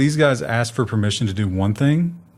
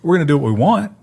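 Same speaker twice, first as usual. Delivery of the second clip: mock corporate boss; 5 semitones higher, 3 dB louder, much faster than usual. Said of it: "they said that".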